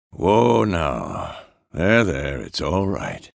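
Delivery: gentle reassurance, sinking in pitch; soothing. Acted. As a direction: settle them down calmly. Soothing someone or an animal.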